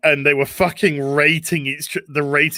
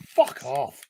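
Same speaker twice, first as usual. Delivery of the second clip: muttered whisper; 5 dB quieter than usual. Real, not acted. Fed up with game guidance.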